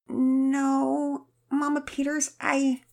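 put-on high, hesitant girl voice; a girl ashamed before her mother; chagrined girl. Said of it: "Penelope looked chagrined".

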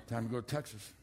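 a calm hushed prompting; quiet inner voice. Retold or imitated. God's quiet call contrasted.

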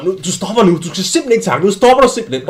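mock manager telling off a player; retold shout. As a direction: lay down the law in a half-yelled scolding. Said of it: "der står og råber".

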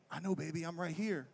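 soft, drowsy murmur; half-asleep reassurance. Retold or imitated. Newlywed husband half asleep, soothing his wife softly. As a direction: reassure quietly, barely awake. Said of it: "I'm half asleep".

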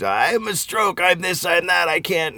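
lightly hammed-up high recitation; imitated commercial performer. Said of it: "And she does words".

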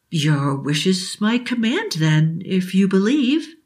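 slow, grand granting of a wish; solemn genie. Acted. Genie granting Billy's wish, slow and solemn. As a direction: let the words hang like magic.

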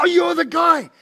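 high, loud exclamation of realisation; excited recognition. Retold or imitated. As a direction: exclaim as the penny drops. Acts out suddenly recognising the man.

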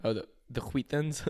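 "Wheat" starts with a harsh throat sound, like "hhweat"; throaty hw. Retold or imitated. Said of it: "the Family Guy thing".

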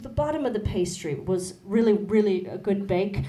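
put-on British accent, baking-show judge; improvised British baking critique. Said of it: "like, a British accent".

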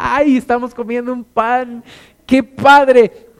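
put-on high, loud childish cheer over a piece of bread; excited kids. Preacher recalling his childhood, gleefully mimicking kids thrilled by bread. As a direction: squeal with delight like a happy kid.

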